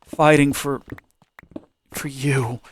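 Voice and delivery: mock heroic whisper. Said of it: "And you're like".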